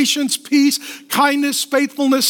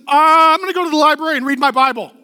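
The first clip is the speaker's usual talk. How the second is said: eager retold reply; 3 semitones higher, faster than usual. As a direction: blurt it out like the best plan ever.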